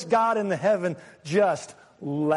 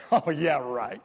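mocking laugh. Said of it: "This is a laugh of mocking".

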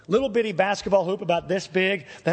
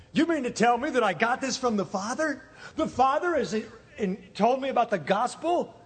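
higher-pitched, wondering question; amazed disbelief; 4 semitones higher than usual. Acted. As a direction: marvel at it, incredulous. Peter marvels at Jesus' words.

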